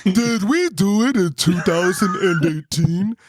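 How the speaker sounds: slow, put-on voice, drawn out word by word; exaggerated slow mock question; imitating his questioning. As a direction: mimic him asking very slowly. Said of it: "the way he said it".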